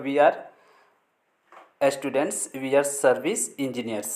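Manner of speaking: slow, careful reading, each word laid out; slow demonstration. Shown as a demonstration. Teacher slowly modelling pronunciation for students. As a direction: spell it out slowly for the learners. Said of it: "पर pronunciation ऐसे होगा".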